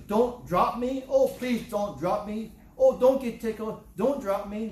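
high, loud begging plea; frantic little plea, hands together; pleading. Acted. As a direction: beg not to be dropped. Pleading voice of the dangled person.

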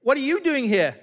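sudden high shocked "What?"; mock startled gym buddy, pitch shooting up; shocked friend. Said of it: "he goes".

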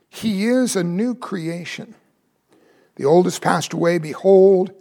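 measured, solemn reading of the verse; scripture reading. Acted. Preacher reads the passage aloud to the congregation, solemn reading.

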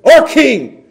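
crying out. Acted. Acts out the crowd crying out.

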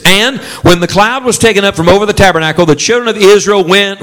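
lifted, measured reading voice; scripture reading. Shown as a demonstration. Preacher reading the verse aloud, then pausing. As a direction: read it out and stop for the congregation. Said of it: "say the next word as loud as you can".

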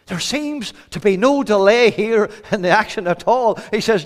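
high, forceful sermon delivery; fervent preaching. Real, not acted. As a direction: preach it out with urgency.

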